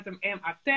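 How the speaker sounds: M A T spelt letter by letter; sounding out words. Shown as a demonstration. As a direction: spell M A T one letter at a time.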